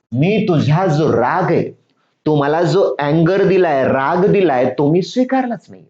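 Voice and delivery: usual speaking voice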